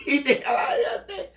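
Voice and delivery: shouting through laughter, pitch way up; laughing loudly. Real, not acted. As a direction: laugh it out loud and high. Laughing while recalling kids' defiance.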